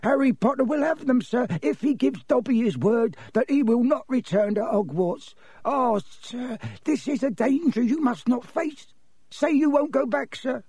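very high elf voice, insistent; high-pitched, alarmed elf plea; urgent, pleading house-elf. Acted. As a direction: beg urgently as a tiny creature. Plays Dobby the house-elf.

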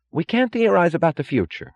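high-pitched, agitated cry; Wesley Mooch. A narrator's reading. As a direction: cry out in urgent protest. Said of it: "cried Wesley Mooch".

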